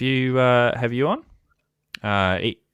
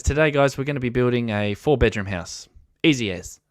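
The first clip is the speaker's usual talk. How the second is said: put-on New Zealand accent; 3 semitones higher than usual. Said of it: "I'll try and do the accent".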